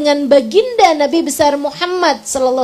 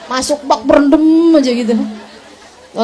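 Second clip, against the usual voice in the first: laughing joke; 4 dB louder than usual. Real, not acted. Joking advice, laughing.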